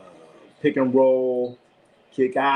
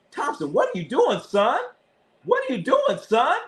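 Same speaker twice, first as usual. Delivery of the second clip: much higher, cracking yell of disbelief; exasperated yell; 12 semitones higher than usual. Real, not acted. Fan yelling at Thompson on TV, much higher exasperated yell. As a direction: shriek at him like he's lost his mind.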